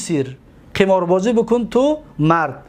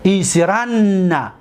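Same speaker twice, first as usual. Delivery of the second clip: ایسرن drawn out slowly with a long final n; slow demo; much slower than usual. Shown as a demonstration. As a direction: say ایسرن slowly for students to copy. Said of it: "دقت دادید؟".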